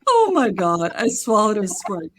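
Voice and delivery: loud, amused exclamation; laughing disbelief. Real, not acted. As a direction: repeat the punchline while cracking up. Listener cracks up at the punchline.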